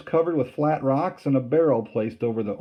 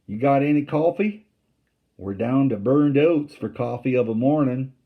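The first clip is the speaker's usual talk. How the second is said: higher, louder Southern soldier bartering; 4 semitones higher, 5 dB louder than usual. A narrator's reading. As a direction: haggle like a friendly rebel picket. Rebel voice bargaining.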